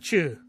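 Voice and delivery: "two" said like "chew", with a CH for the T; Irish T as CH. Shown as a demonstration. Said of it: "T's sound more like C H's".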